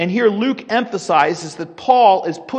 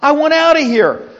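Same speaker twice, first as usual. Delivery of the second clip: pretend pleading; 6 semitones higher than usual. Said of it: "Paul would be crying out".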